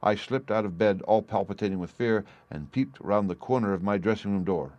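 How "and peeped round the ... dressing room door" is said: usual speaking voice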